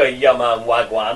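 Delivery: low mimicry of a botched Newcastle accent; mock wrong Newcastle accent. Mocking a friend's Newcastle attempt, mimicked wrong accent. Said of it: "People from Newcastle speak like this, like, they don't go".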